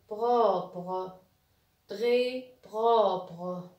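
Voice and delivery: "propre" read slowly, syllable by syllable. Shown as a demonstration. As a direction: draw out each syllable of "propre" for learners. Teacher models reading by syllables.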